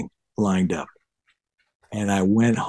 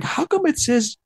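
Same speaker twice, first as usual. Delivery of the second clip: much higher, mock-baffled question that lands on an answer; puzzled then realizing; 10 semitones higher than usual. Green bassist reading B A J O on the page, high mock puzzlement. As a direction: act out a green player figuring out bajo. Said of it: "and I was like".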